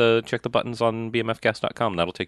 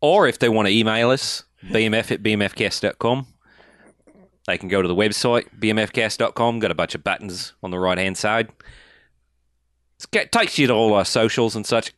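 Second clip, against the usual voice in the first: mild mock Australian contact read; put-on Australian accent. Host telling listeners how to get in contact, Australian accent. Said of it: "I can't do that accent anymore".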